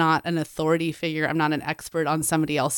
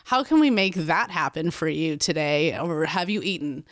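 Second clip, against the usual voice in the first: gentle offer. Retold or imitated.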